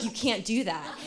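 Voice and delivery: loud, laughing mock alarm; teacher laughing as she retells her alarmed protest. Teacher's panicked reply, laughing.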